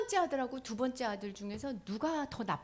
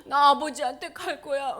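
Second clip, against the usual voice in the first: son's resolve; 4 semitones higher, 10 dB louder than usual. Acted. Prodigal son resolves to return.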